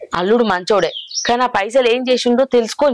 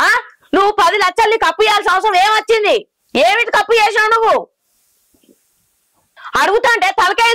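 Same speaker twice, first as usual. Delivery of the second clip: higher, heated scolding of the son-in-law; angry scolding; 6 semitones higher than usual. Acted. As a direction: demand answers, pitch raised. (అల్లుడిని కోపంగా, గట్టిగా నిలదీయడం)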